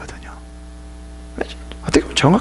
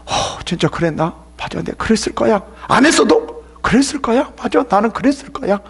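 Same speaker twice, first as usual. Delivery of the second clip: higher, self-doubting musing voice; imitating a guilt-ridden believer; 5 semitones higher than usual. Believer on trial convinces himself he sinned, mock musing. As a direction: talk yourself into a guilt you don't have. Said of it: "또 그 사람은 이럴 거예요".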